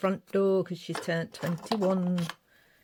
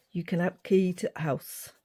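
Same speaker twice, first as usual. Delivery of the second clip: put-on northern accent. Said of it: "doing it in a northern accent".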